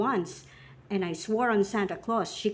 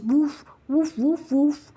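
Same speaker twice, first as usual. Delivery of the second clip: imitated dog barking; 3 semitones higher, 4 dB louder, slower than usual. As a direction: bark it playfully, rising after the first. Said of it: "My dog says".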